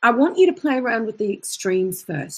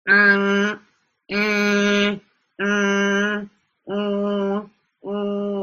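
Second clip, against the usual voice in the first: too nasal uh; much slower than usual. Shown as a demonstration. Vocal coach demonstrating a too-nasal sound. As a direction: demo of an overly nasal uh. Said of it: "So let me show you".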